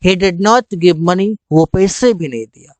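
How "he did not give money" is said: stretched out very slowly; slow clear English. Shown as a demonstration. Teacher giving the English phrase slowly. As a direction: drill it word by word. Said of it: "और तो और".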